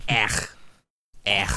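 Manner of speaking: gagging ech; dry heave sound; retching. Real, not acted. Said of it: "almost threw up".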